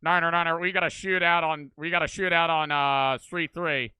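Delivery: urgent dispatch call, loud; police radio call. Retold or imitated. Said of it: "But then it's like".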